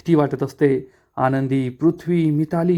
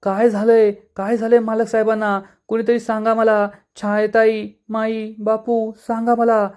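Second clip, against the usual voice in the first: high, panicked pleas for an answer; frightened calling out; 5 semitones higher than usual. A narrator's reading. Blind Anandi calling to the family after the collapse, high panicked cry. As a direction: beg the family to tell her, voice raised high. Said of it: "आनंदी ओरडत असते".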